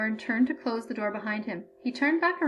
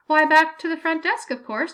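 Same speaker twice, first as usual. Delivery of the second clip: put-on high, bright-eyed old woman's glee; pleased as punch about an injury; a hammed-up cheery examiner; delighted old grader; 5 semitones higher, 7 dB louder than usual. A narrator's reading.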